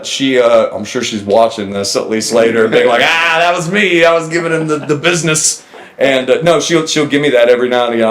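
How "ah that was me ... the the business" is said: lightly voiced, higher mock boast; imagined boast. Imagining her watching later and claiming credit, mock boast.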